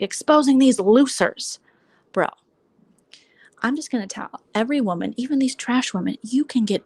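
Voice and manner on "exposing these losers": mocking quote. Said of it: "So he's like".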